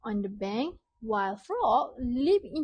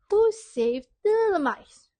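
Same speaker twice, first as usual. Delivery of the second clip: eager question; 8 semitones higher, 6 dB louder than usual. Real, not acted. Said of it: "Then question two".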